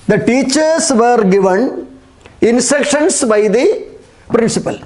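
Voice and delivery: very slow, each word set apart; slow dictation. Shown as a demonstration. Teacher dictating the passive answer for pupils to copy, slowly. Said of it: "ഒന്നിൽ കൂടുതലുള്ളത് കൊണ്ട് the teachers were given".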